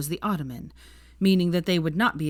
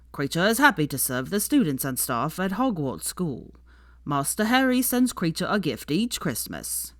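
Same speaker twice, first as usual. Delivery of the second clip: lightly voiced devoted house elf, proud; a hint of an old servant speaking up for his master.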